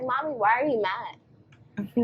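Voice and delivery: put-on slow, soft child's question; a four-year-old asking mom gently; slow little-boy question; innocent little son. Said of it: "he's like".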